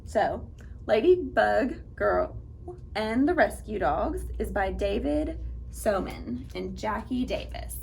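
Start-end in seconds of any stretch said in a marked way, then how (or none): none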